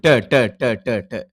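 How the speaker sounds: ட repeated as a clean retroflex "ta", fading at the end; teacher modelling ட sound; ட drill. Shown as a demonstration. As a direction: model ட for pupils to copy. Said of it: "டண்டு உச்சரிப்போம்".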